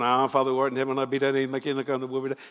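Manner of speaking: fast, low, fading rote recital; rattled-off prayer. Shown as a demonstration. Preacher rattling off the Hail Mary fast. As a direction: rush the prayer to get out of confession. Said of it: "Notice I'm saying it fast".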